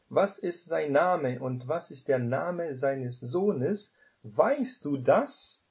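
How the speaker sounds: measured Bible reading, each question lifted; solemn scripture reading. Acted. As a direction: read it out like Scripture from the pulpit. Reads Bible verse aloud.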